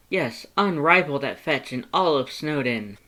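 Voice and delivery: high, loud, proud skeleton boast; proud Papyrus. A narrator's reading. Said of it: "he said proudly".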